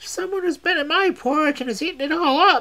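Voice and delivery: tiny voice, very high pitch and loud. Narrator reading a fairy tale as the smallest bear finds his porridge gone, Small Little Wee Bear voice. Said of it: "with his little small wee voice".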